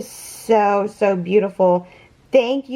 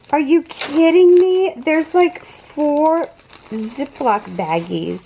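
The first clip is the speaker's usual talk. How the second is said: real astonishment, pitched up; astonished; 3 semitones higher than usual. Real, not acted. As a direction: exclaim it, amazed by the generosity. Astonished at the amount of gifts.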